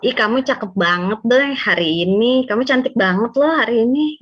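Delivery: lively, admiring praise; complimenting. Shown as a demonstration. Partner complimenting the other's looks today, admiring. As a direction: praise your partner with a lilt. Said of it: "memuji pasangan".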